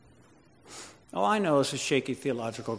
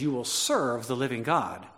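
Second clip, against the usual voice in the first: "serve" picked out above the rest; stress on serve; 3 semitones lower than usual. Shown as a demonstration. Preacher quotes Paul to the congregation, stressing "serve". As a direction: lean on "serve", then fall away. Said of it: "emphasize that word serve".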